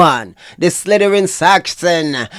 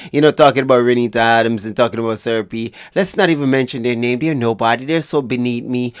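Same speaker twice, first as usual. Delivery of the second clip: mocking Mark Shields. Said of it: "I am Mark Shields".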